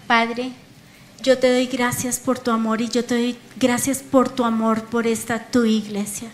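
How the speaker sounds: earnest, measured praying voice; heartfelt prayer. Real, not acted. Preacher thanking the Father and surrendering her life, heartfelt prayer.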